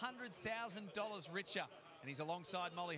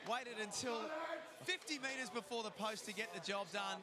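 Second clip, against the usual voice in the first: raised, shouting race call over the finish; excited race call; 3 semitones higher than usual. Real, not acted. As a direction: call the last fifty metres with a real shout. Race caller calling the finish.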